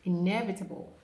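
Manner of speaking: inevitable as "in-EV-uh-tuh-bul"; teacher's inevitable; careful inevitable. Shown as a demonstration. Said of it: "I can't hear you".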